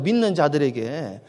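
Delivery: 믿는 drawn out low and soft; slow, quiet stress on 믿는. Shown as a demonstration. Pastor repeating the key phrase to the congregation, slow soft stress on 믿는. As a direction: lean slowly on 믿는 with a dropped voice.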